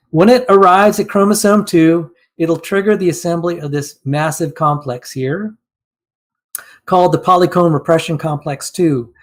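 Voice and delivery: hoarse, strained, losing my voice. Real, not acted. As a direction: rasp through a failing, losing voice. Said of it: "I'm losing my voice".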